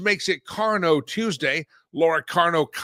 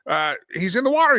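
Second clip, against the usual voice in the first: put-on louder, eager calling out to a child; excited calling; 4 semitones higher, 5 dB louder than usual. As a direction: point out the hippo excitedly. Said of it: "trying to get my son's attention".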